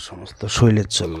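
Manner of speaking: slow, hushed whisper of the last mantra line. Shown as a demonstration. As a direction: breathe the spell out in a whisper, slowly. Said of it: "আমি এই কারণে আস্তে আস্তে বলছি".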